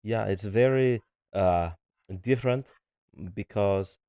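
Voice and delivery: hammed-up cartoon German; cartoonish German accent. Shown as a demonstration. Husband shows off his German for partner, cartoonish German accent. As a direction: put on a mock German accent. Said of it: "I could do, like, a cartoonish German one".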